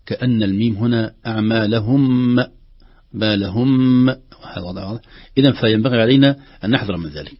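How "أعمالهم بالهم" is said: بالهم with a ميم as if doubled; extra nasal ring. Shown as a demonstration. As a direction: lengthen the final ميم of بالهم. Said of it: "تشبه الميم المشددة".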